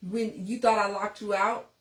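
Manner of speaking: laughing through tears. Real, not acted. Laughing-crying while recalling lockout.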